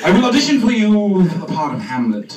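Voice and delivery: loud, fast theatrical announcement; grand stage actor. Retold or imitated. Actor announces his Hamlet audition to the panel, loud and grand. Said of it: "I begin to speak like this".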